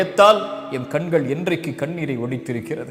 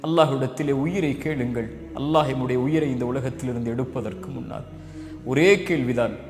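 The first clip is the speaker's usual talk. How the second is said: softer and lower, sorrowful sermon close; hushed closing plea; 4 semitones lower, 5 dB quieter than usual. Acted. Preacher quietly urging the congregation to weep for God. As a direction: drop the voice, pleading quietly with the listeners.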